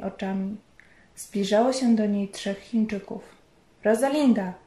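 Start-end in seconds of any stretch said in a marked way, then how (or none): 3.8-4.5 a mild mock shout of the name; shouting her name. Husband calls to his panicking wife, mild shout. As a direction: call her name sharply to snap her out. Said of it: "krzyknął".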